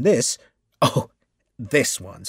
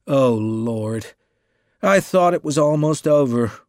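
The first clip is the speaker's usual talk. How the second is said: louder, weary groan of complaint; a hammed-up groan of dismay; 3 semitones higher, 7 dB louder than usual. A narrator's reading. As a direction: groan it out, fed up. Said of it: "groaned the novelist".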